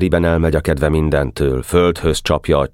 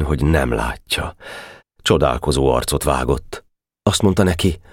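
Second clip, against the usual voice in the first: plain reading voice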